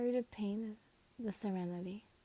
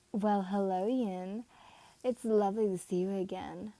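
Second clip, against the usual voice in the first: cocky greeting; 3 dB louder than usual. Acted. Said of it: "Momo greeted as he approached Yin with a cocky grin".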